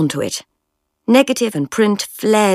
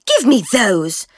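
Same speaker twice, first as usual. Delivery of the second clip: savage demand; 5 semitones higher, slower than usual. Acted. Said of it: "savagely snatching".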